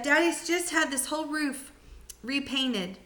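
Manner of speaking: put-on a small boy begging grandma to stop; young George, worried. George worried about the roof.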